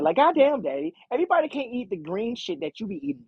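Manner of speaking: a fair hint of the spoiled kid complaining; whiny teen daughter. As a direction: daughter brushing off her father on the phone, bratty and high. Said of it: "that's how she's talking".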